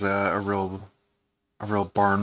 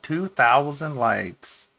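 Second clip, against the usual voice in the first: slow, higher mock awe; mock amazement; 5 semitones higher, much slower than usual. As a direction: drag it out in fake amazement. Mocking repeat of the tweet count.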